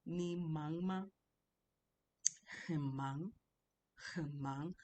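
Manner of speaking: slow, careful "Ni mangma, hemang" with each tone drawn out; tone demonstration. Shown as a demonstration. Teacher showing the different tones, slow tone demonstration. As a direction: model the tones of "Ni mangma, hemang" slowly and separately. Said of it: "trying to see the different tones".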